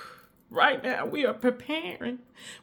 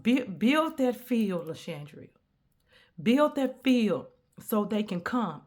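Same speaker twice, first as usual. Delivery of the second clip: voice of God. Retold or imitated. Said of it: "God is saying".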